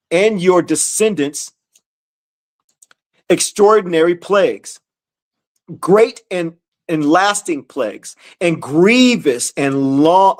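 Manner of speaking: measured, emphatic verse reading; scripture reading. Acted. Teacher reading verses to followers, emphatic scripture reading. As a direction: read it out deliberately, phrase by phrase.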